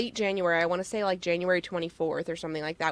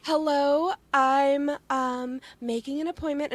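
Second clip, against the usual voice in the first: mom phone voice; 6 semitones higher than usual. Retold or imitated. Imitating mom's polite phone voice to make the host laugh. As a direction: sound like mom booking an appointment. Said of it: "the mom voice".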